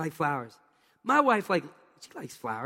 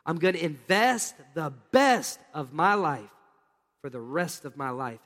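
slow, deliberate declaration; 2 semitones lower than usual. Shown as a demonstration. Preacher leading the congregation in a slow, firm declaration. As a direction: draw each phrase out, slowly. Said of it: "Now let's put it together".

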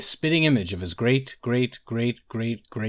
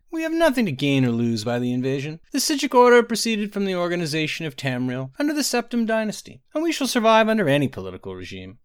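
higher, proud mage voice; proud order leader; 7 semitones higher, 3 dB louder than usual. A narrator's reading. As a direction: declare the order's independence with pride.

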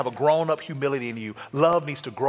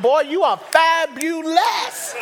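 admiring herself; 11 semitones higher, 3 dB louder, much slower than usual. Retold or imitated. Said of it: "I look at her and I think".

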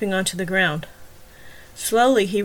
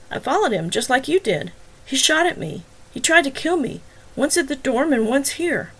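higher, nervous protesting; anxious pleading; 6 semitones higher than usual. Acted. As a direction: talk fast to save your skin. Wagner pleading his innocence.

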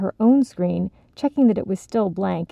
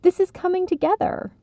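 excited; 11 semitones higher than usual. Acted. Excited grins.

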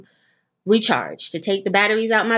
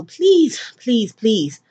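urgent plea; 3 semitones higher, 4 dB louder, much slower than usual. Real, not acted. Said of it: "pleading with listeners".

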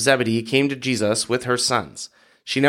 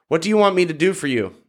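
higher-pitched question, lightly called out; mild call; 5 semitones higher than usual. A narrator's reading. Jesus calling to the blind men, mild call. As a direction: lift it gently as a narrated call. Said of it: "and he called".

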